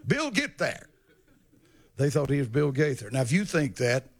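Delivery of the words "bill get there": excited lady on phone. Retold or imitated. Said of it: "Started calling home, saying".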